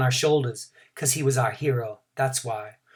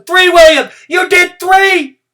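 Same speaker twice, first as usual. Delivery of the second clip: overjoyed shout, much higher and louder; excited cheering; 14 dB louder, slower than usual. A narrator's reading. Girl cheering William from the grass, ecstatic shout. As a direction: jump up and cheer him on.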